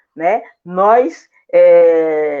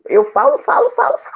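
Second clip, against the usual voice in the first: playful high-pitched; faster than usual. Real, not acted. Playful joke about talking too much.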